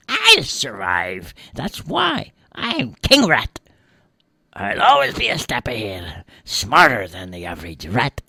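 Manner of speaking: rat voice. Acted. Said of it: "said the rat".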